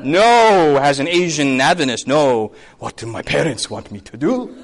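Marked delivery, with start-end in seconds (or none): 2.8-4.6 low, soft, resigned question; meek mock resignation; subdued dutiful student. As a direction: deflate into obedience, lightly mocking. Acts dutiful Asian student, subdued.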